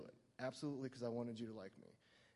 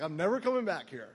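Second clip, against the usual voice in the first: mortified outburst; 5 semitones higher, 11 dB louder than usual. Retold or imitated. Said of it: "I was like".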